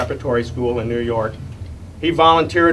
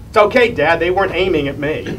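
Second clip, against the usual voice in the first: higher, cheery mock reassurance; nonchalant, happy; 5 semitones higher, 5 dB louder than usual. Son reassuring Dad after gunfire, imitated as nonchalantly happy. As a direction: imitate a son breezily brushing off danger. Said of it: "in a kind of a happy way".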